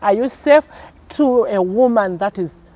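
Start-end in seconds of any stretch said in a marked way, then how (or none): 0.0-0.7 caring check-in. Shown as a demonstration. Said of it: "Calling your wife and ask".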